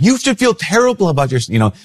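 high, scandalized church-lady voice; mock scandalized old church lady; scolding church lady. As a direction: play the disapproving old lady tutting at him. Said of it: "she'd be like".

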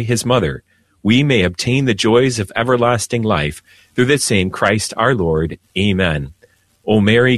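measured, solemn liturgical prayer; formal prayer. Acted. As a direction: lead the prayer reverently, like at Mass. Opening prayer on radio.

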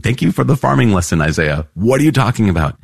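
sarcastic thanks, pitch swinging high; mock exasperation. Lecturer answering Isaiah as a puzzled reader, mock exasperated.

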